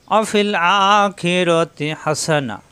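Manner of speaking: Quranic recitation. Shown as a demonstration. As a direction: recite it as a model for students. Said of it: "আরও ছোট ছোট করে পড়ি".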